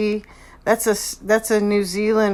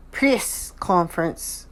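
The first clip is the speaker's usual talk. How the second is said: normal talking voice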